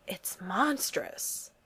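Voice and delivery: slow, soft appalled hush; horror and awe. A narrator's reading. Steve appalled by the giant burger photo. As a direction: stare at it, horrified and amazed. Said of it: "horror and awe in his voice".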